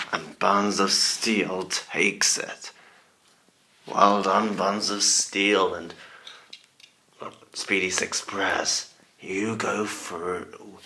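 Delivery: spooky put-on announcer voice; scary Halloween voice. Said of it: "I'm using my scary Halloween voice".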